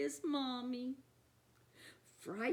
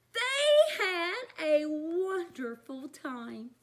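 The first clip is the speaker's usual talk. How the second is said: put-on lively read-aloud to kids; storytime narration; 4 dB louder than usual. A narrator's reading. Reader to children at storytime, lively narration. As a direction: read it like a picture book for children. Reading picture book aloud.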